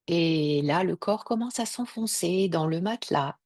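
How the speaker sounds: unhurried yoga nidra voice with long pauses; guided meditation. Acted. Yoga teacher guiding listeners to relax their body, calm meditation voice. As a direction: guide them into rest, letting each phrase settle.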